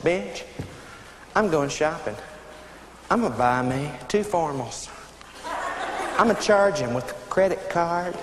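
low, soft, deliberate announcement; cold defiance. Acted. Wife telling husband she is going shopping, coldly defiant. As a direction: lay it down in measured pieces, pausing between threats.

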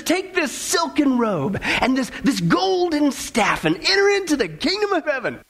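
slow, lilting, hammed-up grand invitation; joyful welcome. Saint Peter rewarding the taxi driver, joyful. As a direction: bestow the riches with acted delight. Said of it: "he smiles joyfully and he says".

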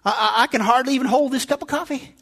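a hint of feeble elderly grumbling; elderly person. Preacher acting a Florida senior lamenting weak arms, mildly feeble. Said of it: "this one elderly person says".

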